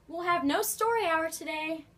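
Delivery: high, loud, stern teacher's order; stern witchy teacher. A narrator's reading. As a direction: lay down the law like a witch. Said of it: "said Miss Swamp".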